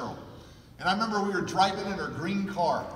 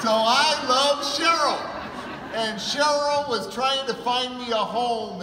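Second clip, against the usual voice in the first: louder and slower, Cheryl stressed; heartfelt declaration; 4 semitones higher, 4 dB louder, slower than usual. Real, not acted. Speaker declaring his love for Cheryl, loud and slow. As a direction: say it big and proud.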